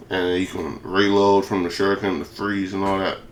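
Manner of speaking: slurring with a lisp; words slurred and lisped; slurred speech. Real, not acted. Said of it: "my voice sound like I'm, I'm drunk with a lisp and a slur".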